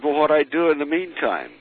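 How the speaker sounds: mock anxious question to the medium; anxious plea. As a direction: ask it half in a panic.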